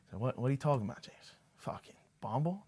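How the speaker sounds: mock the baffled father grilling his son; imitating dad. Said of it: "This is exactly how my dad sounds".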